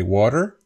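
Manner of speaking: water with flapped T and R; American flapped T. Shown as a demonstration. Teacher imitates an American, water with flapped T. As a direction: tap the T in water, end on R. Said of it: "you have the flopped T".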